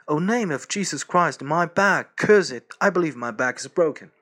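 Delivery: high, loud pained groaning complaint; Boris in pain. Acted. Boris waking up in agony, complaining to his friend: pained loud voice. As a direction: cry out about a broken back, hurting.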